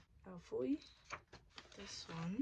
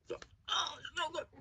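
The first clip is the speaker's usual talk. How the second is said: much higher, thrilled moan of delight; high delighted cry over the food; delighted squeal; 10 semitones higher, 5 dB louder, slower than usual. Real, not acted. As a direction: squeal at how good it tastes. First bite of tteokbokki.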